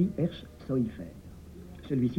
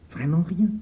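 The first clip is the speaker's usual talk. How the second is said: cried out; 7 semitones higher, 5 dB louder than usual. Acted. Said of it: "s'écria Baal Shem".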